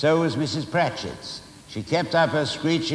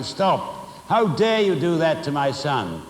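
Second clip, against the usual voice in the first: imagined shout; 3 semitones higher than usual. Retold or imitated.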